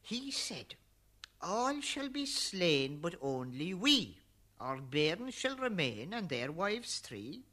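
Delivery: urgent Noah. Acted. Noah urging his wife to flee.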